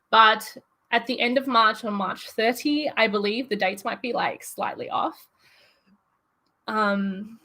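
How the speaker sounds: nervous, shaky voice; a nervous tremble in the voice. Real, not acted. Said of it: "Sorry, my voice is, like, a little shaky".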